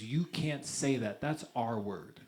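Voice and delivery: put-on slow, scolding old Chilean woman; lightly voiced old woman scolding slowly. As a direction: wag a finger at him, slowly.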